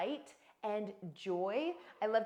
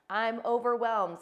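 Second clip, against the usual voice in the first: overwhelmed; 8 dB louder, slower than usual. Shown as a demonstration. Label example, loud and slow.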